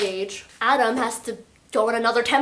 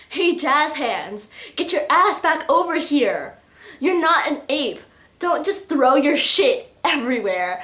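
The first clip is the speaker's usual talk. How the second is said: mock-bossy telling-off, a little higher and louder; acted scolding; 3 semitones higher, 4 dB louder than usual. Kenji orders someone back over, in an acted scolding.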